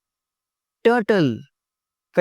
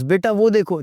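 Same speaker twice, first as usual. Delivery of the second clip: higher voice of a mother pointing something out; imitated mother; 5 semitones higher, 3 dB louder than usual. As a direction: lightly mimic a mother calling her child. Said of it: "कुछ मदर्स". (माँ की नकल, बच्चे को दिखाते हुए)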